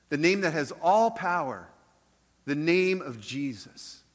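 earnest prayer voice; closing prayer. Acted. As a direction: pray over the congregation.

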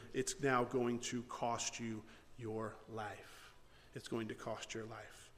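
low, soft retelling of a judgment; solemn verdict. Retold or imitated. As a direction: drop low and quiet, slowing to a grave close. Voicing God's solemn verdict.

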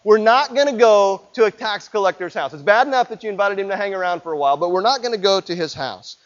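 loud, exasperated objection; the disciples push back hard against Jesus; indignant protest. Retold or imitated. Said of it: "the rest of them going".

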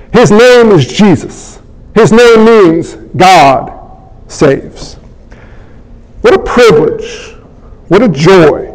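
slow, low-pitched gospel proclamation; measured sermon close with weighty pauses; solemn preaching. Real, not acted. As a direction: let each phrase land, unhurried and reverent.

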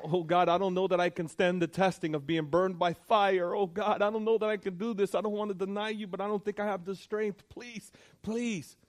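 high, desperate pleading that fades to a hush; a saint pleading before the fire; pleading cry. Retold or imitated. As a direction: beg God with a breaking voice. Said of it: "one saint was crying out".

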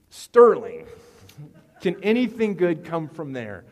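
loud, mock-scornful Sterling outburst; shouted punchline. Pastor mocking Sterling to the congregation, loud scornful shout. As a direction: belt out the town name and the sneering question. Punchline swapping in local town.

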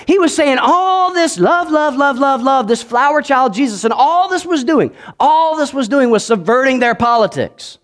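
high, ringing preacher's call; rising sermon cadence of love; fiery preaching. Acted. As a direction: preach it out to the crowd. Preaching at full force.

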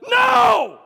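very loud, high shouted NO; full-force yell of refusal to the enemy; top-of-lungs yell. Shown as a demonstration. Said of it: "at the top of your lungs".

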